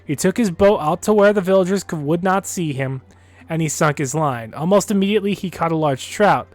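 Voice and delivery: reading a folk tale aloud; story narration. Acted. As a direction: tell it like a storyteller.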